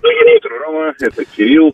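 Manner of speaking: thin voice over the phone; phone line voice. Real, not acted. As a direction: talk through a phone line. Caller phones into radio show.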